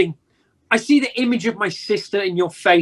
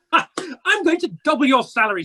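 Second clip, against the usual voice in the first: laugh, then the news said higher and gleeful; laughing announcement; 5 semitones higher than usual. Acted. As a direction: chuckle through the good news. Scrooge delighting in his surprise.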